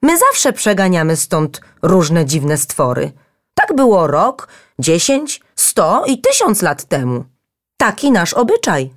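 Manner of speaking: high, squeaky and frightened; nervous little stones excusing themselves; squeaky scared voices. A narrator's reading. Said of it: "głosiki zrobiły się piskliwe i przestraszone". (piskliwe, przestraszone głosiki)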